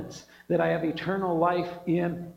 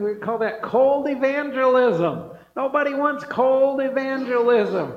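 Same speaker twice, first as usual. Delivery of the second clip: emphatic preaching; 5 semitones higher, 5 dB louder than usual. Real, not acted.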